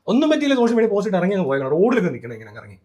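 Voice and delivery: ordinary delivery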